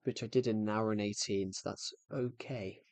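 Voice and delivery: winded after a long walk; out of breath. Real, not acted. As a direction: talk while catching breath. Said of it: "Sorry that if I sound out of breath".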